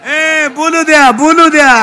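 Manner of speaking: high, drawn-out call over the crowd. Real, not acted. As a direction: call out slowly to quieten interrupters. Calling over the noisy audience. (गर्दीला उद्देशून उंच, लांबवलेली हाक)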